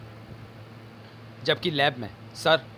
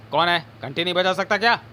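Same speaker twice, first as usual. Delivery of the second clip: irritated call; 4 semitones higher, 4 dB louder than usual. Acted. Annoyed at banging door.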